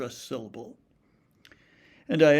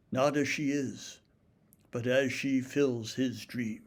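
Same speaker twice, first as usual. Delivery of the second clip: poem reading. Shown as a demonstration. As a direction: read the sonnet aloud with care. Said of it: "I want to read you a sonnet".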